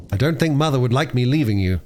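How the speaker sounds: put-on mildly hesitant boy; doubtful. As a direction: voice a slight misgiving. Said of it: "said Peter doubtfully".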